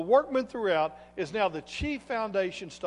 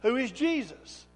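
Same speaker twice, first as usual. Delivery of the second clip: raised, higher preaching voice; emphatic preaching; 4 semitones higher, 8 dB louder than usual. Acted. Preacher declares God accepted Jesus to congregation, emphatic preaching. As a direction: proclaim it loudly, leaning on key words.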